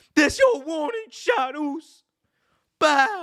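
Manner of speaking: very high, slow whine, "bow" drawn out. Mocking a wrestler's promos as whiny: imitating whiny promo voice. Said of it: "He's kinda whiny when, during his promos".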